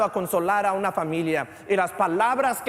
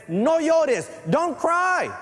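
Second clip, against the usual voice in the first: Jesus comforting; 10 semitones higher, 3 dB louder, much slower than usual. Acted. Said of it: "Cristo le dice a la mujer".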